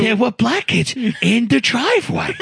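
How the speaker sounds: imitated Long Island Italian-American coworker; mock Italian-American guy telling his troubles. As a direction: put on an Italian-American accent, incredulous complaint. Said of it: "this guy who talked like this, Italian guy".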